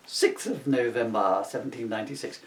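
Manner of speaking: a hint of a grand duchess. Real, not acted. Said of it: "I've gone into a Duchess voice".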